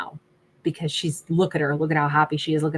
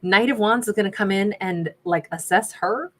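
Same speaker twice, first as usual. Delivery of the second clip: sassy; 3 semitones higher than usual. Retold or imitated. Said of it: "I immediately wanna get all sassy pants".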